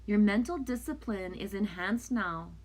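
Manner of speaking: measured, gentle card-reading voice; oracle card reading. Acted. Card reader reads the message to viewers in a calm reading voice. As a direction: read the message like a spiritual guide.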